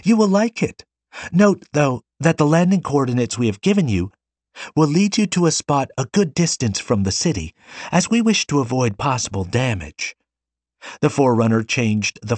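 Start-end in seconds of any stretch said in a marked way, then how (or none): 0.0-10.1 put-on high, chatty young girl; chattering girl. A narrator's reading. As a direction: prattle on eagerly. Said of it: "prattled on".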